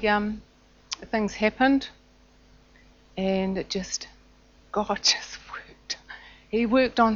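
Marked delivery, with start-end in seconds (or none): 4.7-6.0 hushed whisper. Real, not acted. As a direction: breathe it out in awe. Unvoiced whisper at the end.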